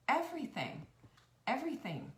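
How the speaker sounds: "Everything" pitched high and hit hard; emphatic repeat. Real, not acted. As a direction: land on "Everything" with force.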